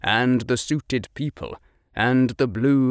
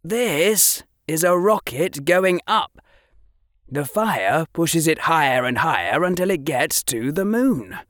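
lightly voiced eager boy explaining, a touch higher than the narration; a hint of a keen boy showing off; Harry explaining muggle pictures to Draco; young Harry; 8 semitones higher, 3 dB louder than usual.

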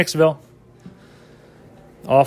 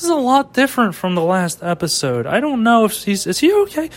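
mock worried viewer; 5 semitones higher than usual.

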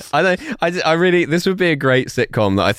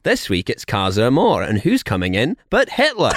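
put-on Scottish accent. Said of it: "Why am I doing a northern accent?".

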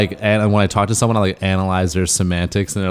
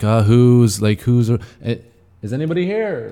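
lost and unsure; 4 semitones higher than usual. Retold or imitated. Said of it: "we're still like".

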